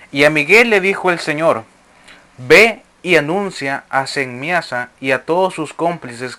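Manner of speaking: measured, declamatory reading of sacred text; formal reading to a congregation; scripture reading. Acted. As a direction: read it out as solemn scripture. Reads scripture aloud to listeners.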